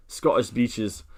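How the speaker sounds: lightly attempted, slow Scottish accent; terrible Scottish accent. Streamer joking about going surfing, bad Scottish accent. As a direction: have a half-hearted go at a Scottish accent. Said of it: "That was a terrible accent".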